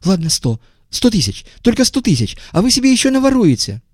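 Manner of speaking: high, wheedling haggling voice; high-voiced bargainer. A narrator's reading. Visitor lowering his price, high wheedling.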